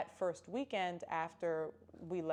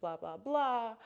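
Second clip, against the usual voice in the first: whiny self; 6 semitones higher than usual. Retold or imitated. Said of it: "And I was like".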